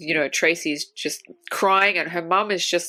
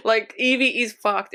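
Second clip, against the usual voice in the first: laughing; 3 semitones higher than usual. Real, not acted. Laughing remark.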